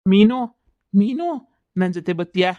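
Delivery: eerie lover's call from the dark; ghost calling. Acted. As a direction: beckon her like a spirit. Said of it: "ದೆಯ್ಯ ಮಾತಾಡ್ತಾ ಇತ್ ಕಣ್ರಪ್ಪೋ".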